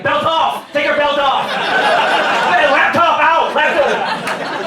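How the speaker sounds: high, loud barked orders; fed-up barked instructions. Retold or imitated. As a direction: bark orders like a furious TSA agent. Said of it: "my rage is just building".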